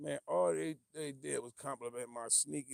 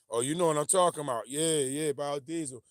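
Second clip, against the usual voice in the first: excited recognition; 11 dB louder than usual. Real, not acted. Finally remembers the name.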